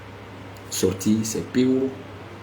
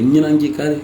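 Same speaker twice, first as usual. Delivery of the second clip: demo shout; 5 semitones higher, 4 dB louder than usual. Shown as a demonstration. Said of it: "Je vais crier tout de suite".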